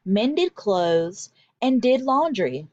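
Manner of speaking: put-on expressive read-aloud for children; storybook reading. A narrator's reading. Teacher reading a story to her class, expressive and lively. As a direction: read it like a picture book to a class.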